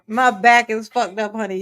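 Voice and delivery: strained, hurting while laughing; laughing through pain. Real, not acted. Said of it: "That hurt".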